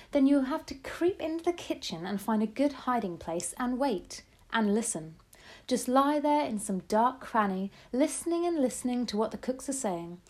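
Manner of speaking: lightly voiced grandmother, eager and plotting; hint of an old lady scheming. Grandmother's voice, long instructions.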